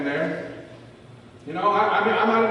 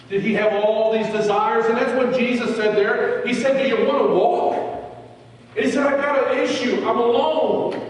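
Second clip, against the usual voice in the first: high, loud sermon climax; preaching at full force; 7 semitones higher, 6 dB louder than usual. Acted. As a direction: drive it home to the congregation.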